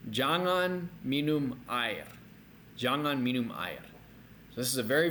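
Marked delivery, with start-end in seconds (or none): 0.1-2.1 slow, firm warning; very strong warning. Shown as a demonstration. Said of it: "very strongly". 2.8-3.8 firm warning; very strong warning. Shown as a demonstration. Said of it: "very strongly".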